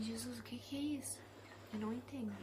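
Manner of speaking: soft puzzled whisper; hushed confusion; whispered question. Retold or imitated. Confused prayer in thought.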